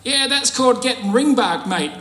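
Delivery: a hammed-up Aussie heckler shout; retold heckler yell. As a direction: call it out like a cheeky bloke in the pews. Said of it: "this bloke yells out".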